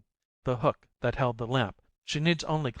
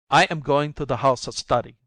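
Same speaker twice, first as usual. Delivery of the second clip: calling out; 2 semitones higher, 6 dB louder than usual. Acted. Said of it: "calls out over his shoulder in a milder tone".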